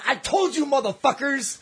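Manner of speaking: high-pitched triumphant I-told-you-so; gloating, acted out for laughs; retold vindication. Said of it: "I turned around and I said".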